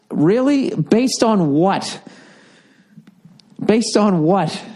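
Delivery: incredulous rant. Real, not acted. Ranting at Europeans, incredulous and high. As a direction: pitch jumps up high in disbelief.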